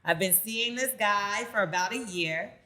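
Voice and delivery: measured, emphatic read with dramatic pauses; reading a letter aloud. Acted. Host reads a listener's dilemma to co-hosts, emphatic read-aloud. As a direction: land key words hard, then pause.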